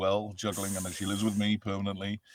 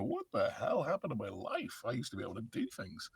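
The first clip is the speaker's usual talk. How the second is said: mock exasperation; 3 semitones higher, 4 dB quieter than usual. Overworked actor asking where life went, mock exasperation. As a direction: wail it at yourself in mock despair. Acted lament about busy life.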